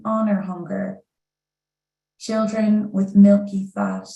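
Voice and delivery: slow, measured recital in short phrases; poetry reading. Acted. Poet reading to an audience about the Irish famine, measured recital. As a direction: let each image stand between pauses.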